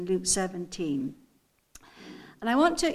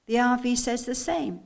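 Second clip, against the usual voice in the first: ordinary delivery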